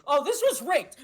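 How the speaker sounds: high, loud laughing complaint; laughing outrage. Real, not acted. Outraged over rigged air hockey.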